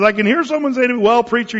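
put-on squeaky, high-pitched old radio preacher; light impression of a squeaky Bible teacher; J Vernon McGee. Pastor reading a radio teacher's commentary, lightly mimicked squeaky voice. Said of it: "you can hear him in his squeaky, uh, voice".

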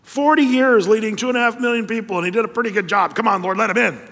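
put-on whiny kid pleading; childish protest. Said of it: "as a kid reading that going".

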